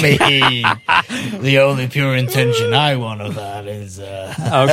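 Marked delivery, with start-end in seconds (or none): 1.4-4.7 low, groggy and suggestive; deep groggy voice. Real, not acted. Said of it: "that really deep, groggy voice you've got there".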